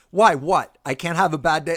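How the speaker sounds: loud high defensive snap; hammed-up huffy protest; mock indignant outburst. Picturing his defensive reply to Jackie, mock indignant outburst. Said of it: "I picture you going".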